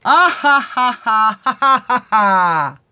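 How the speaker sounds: loud, high staged laugh; big deliberate laugh on request; forced laughter. Pretend. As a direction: belly laugh on cue. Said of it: "Let's laugh at ourselves".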